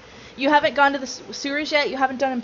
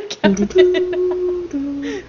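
laughing; 6 semitones higher, 5 dB louder than usual. Real, not acted. Laughing at Kevin's phrase.

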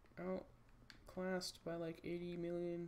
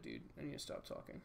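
normal talking voice

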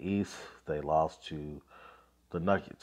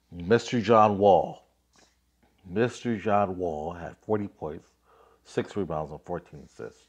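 hype announce; 6 dB louder than usual. Real, not acted. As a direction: sell the name like a arena announcer. Hyping up a star player.

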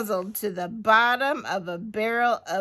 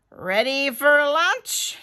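high, loud launch call; raised voice, pitch climbing; 6 semitones higher, 6 dB louder than usual. Acted. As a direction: call it across, rising at the end. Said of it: "he called".

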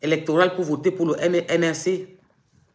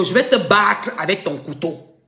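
each word slow and heavy, louder; slow loud threat; 5 dB louder than usual. Real, not acted. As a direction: lean in and hammer out the threat. Threat, said twice.

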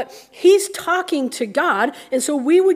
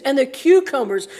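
mock-whiny craving on "cucumbers"; lightly hammed-up craving, stretching "cucumbers"; whiny longing; 3 dB louder than usual. Preacher mimics the Israelites craving Egypt's food, mock-whiny. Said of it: "But they're like".

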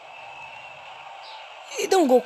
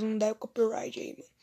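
whispering; 6 dB quieter than usual. Real, not acted. Begging YouTube not to strike.

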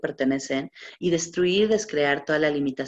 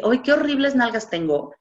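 higher, louder whiny complaint about her body; mock self-disgust; 6 semitones higher, 5 dB louder than usual. Mocking the listener's inner critic, whiny complaint. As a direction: groan it like someone hating their own body. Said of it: "En lugar de decir".

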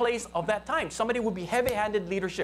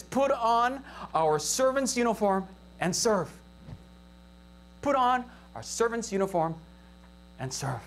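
slow dictation. Shown as a demonstration. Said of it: "in your notes, I want you to write".

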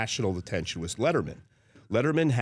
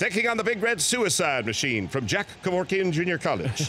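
Keith Jackson impression; 4 semitones higher than usual. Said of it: "Let me do it for you right now".

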